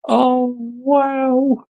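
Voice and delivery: high, breathless laughing wonder; barely recovering from a laughing fit; tearful laughter. Real, not acted. Co-host still laughing after the clip, tearful laughter. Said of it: "I'm nearly in tears watching that".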